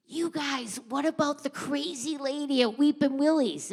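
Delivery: high, loud call down the corridor; yelling out. Retold or imitated. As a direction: shout it across a packed hallway. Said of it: "And June yells out".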